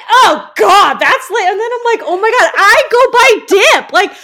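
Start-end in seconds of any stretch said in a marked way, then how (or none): 0.1-1.5 mock excited. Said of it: "And I'm like". 2.0-4.1 high and loud, laughing through it; giggling self-mockery, pitched up. Real, not acted. Laughing at herself.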